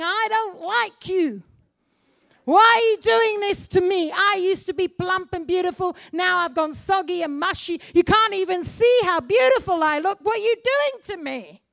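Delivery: loud, pleading complaint with a yell at the peak; strawberry protesting. Acted. Strawberry in the hot pot protesting to the farmer, loud and pleading. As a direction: cry out against the cruel farmer.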